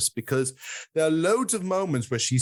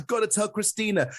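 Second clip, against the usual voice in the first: quick, higher rush of good news; imitating eager joy; 6 semitones higher, faster than usual. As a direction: hurry off to tell Christina, mock delighted. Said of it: "in a good mood".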